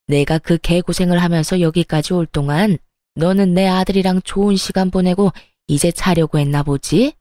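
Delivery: lightly voiced mother-in-law, sneering and furious; a hint of an enraged mother-in-law scolding; angry mother-in-law. Mother-in-law barging in to scold her daughter-in-law, lightly voiced fury.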